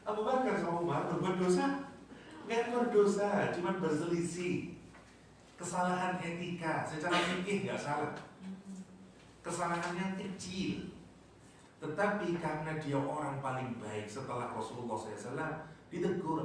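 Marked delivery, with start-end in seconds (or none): 0.0-10.9 emphatic correction. Real, not acted. Emphatic teaching, raised high.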